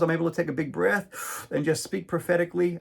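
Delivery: said with sarcasm; tongue-in-cheek self-mockery; sarcastic. Real, not acted. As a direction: give it a lightly sarcastic edge. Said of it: "I say that with sarcasm".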